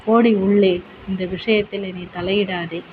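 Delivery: loud, harsh command to go inside; husband shouting his wife back into the house; sharp order. Acted. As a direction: bark her back indoors.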